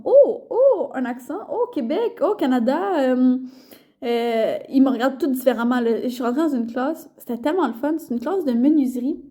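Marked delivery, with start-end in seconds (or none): 0.0-4.6 excited locals. Retold or imitated. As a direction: play the wide-eyed locals gushing over Québec. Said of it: "les gens sont comme".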